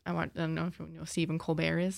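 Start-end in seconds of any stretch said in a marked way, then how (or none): 1.4-1.8 "Colbert" as kohl-BAIR, silent T; French-style Colbert. Shown as a demonstration. Presenter compares the author with the famous Stephen, silent-T "Colbert". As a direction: drop the T from "Colbert", ending on -bair. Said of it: "she might pronounce it Colbert".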